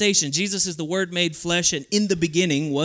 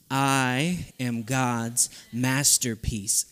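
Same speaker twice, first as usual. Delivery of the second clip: believing it; 3 semitones lower, much slower than usual. Shown as a demonstration. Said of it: "say it like you actually believe it".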